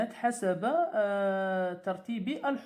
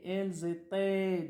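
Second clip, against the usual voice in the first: slow repeat. Shown as a demonstration. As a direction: repeat elles étaient slowly. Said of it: "on dit, elles".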